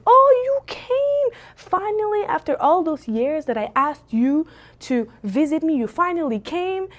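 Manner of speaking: high, exclaiming mock reproach; harsh, funny cousin. Dad's cousin greeting him after years, high mock-scolding welcome. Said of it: "she's harsh when she talks".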